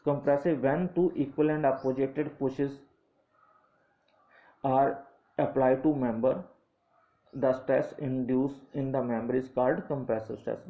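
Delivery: slow definition read for note-taking; dictating a textbook definition at half pace; slow dictation. Acted. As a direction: spell it out slowly so students can write.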